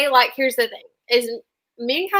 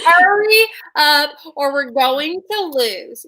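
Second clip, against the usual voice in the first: louder, higher, slow hurry-up; impatient yell; 4 semitones higher, 5 dB louder than usual. Pretend. Hurrying a struggling teammate along, louder and higher. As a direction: push a slow teammate to speed up.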